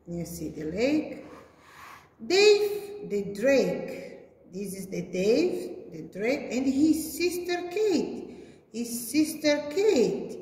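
sing-song picture-book narration; reading to children. A narrator's reading. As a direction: read it out to small kids. Reads picture story to children.

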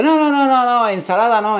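high, rapid-fire mock protest; emphatic refusal. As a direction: shut the suggestion down with rising pitch. Refusing salad on pretend phone call. (negativa rotunda, fingida)

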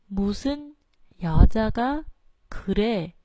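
무슨, 여자가, 그래 separately, each begun low; low starts, word by word. Shown as a demonstration. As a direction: pause between words, drop on 무, 여, 그. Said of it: "âm thường cho nên xuống giọng".

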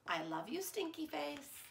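softly hushed, close to the ear; tender hush to a child; soft whisper in the ear. A narrator's reading. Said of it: "whisper in your ear".

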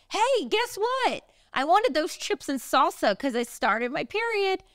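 high, slow playful hey; sing-song tease. Retold or imitated. Wife teasing her husband in the shower, high and playful. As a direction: drag out the hey like a gotcha.

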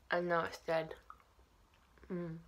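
talking while chewing candy; muffled chewy speech; mouth full, chewing. Real, not acted. Seen 4: Bear put in mouth at -1; closed-lip chewing 1.0–2.2 s.

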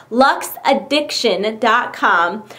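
"Lux addiction dot com" slow and separated word by word; careful pronunciation. Real, not acted. Retrying a hard company name, "Lux addiction dot com" slow and careful. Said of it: "That is really hard to say".

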